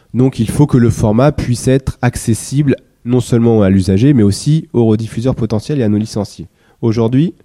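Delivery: speaking while slightly ill, between coughs; a bit sick. Real, not acted. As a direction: talk through a mild cold. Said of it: "je suis un peu malade".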